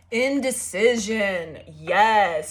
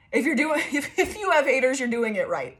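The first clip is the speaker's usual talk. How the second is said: laughing through it; 3 semitones higher than usual. Real, not acted. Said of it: "I don't know why I said it like that".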